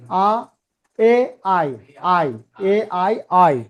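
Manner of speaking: আ and ই said apart, then joined as আই; diphthong demo. Shown as a demonstration. Teacher demonstrating two vowels said together, diphthong demo. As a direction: glide slowly from আ into ই for আই. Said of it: "দুটো ভাওয়াল একসাথে উচ্চারিত হয়".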